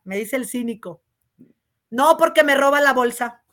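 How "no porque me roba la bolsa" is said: said out loud for all to hear; a firm, loud brush-off; loud retort. Retold or imitated. Deputy snapping back at a flirting colleague, loud. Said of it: "Pero mi voz se oye tan fuerte".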